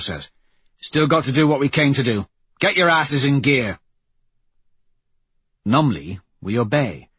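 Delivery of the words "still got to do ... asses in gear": higher-pitched, forceful squad leader; Severo, curt leader. Acted. Severo cutting short the crew's speculation, commanding. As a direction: order the crew to get on with it. Voices Severo ordering the crew.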